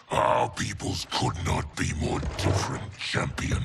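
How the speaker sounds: tipsy sneer with slurred edges; drunk. Acted. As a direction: sound a little drunk and scornful. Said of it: "Perhaps I've enjoyed too much of this excellent wine".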